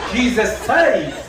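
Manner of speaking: hammed-up revival line, slow; slow preacher slogan. Preacher pressing his message on a stranger, slow and mock-solemn.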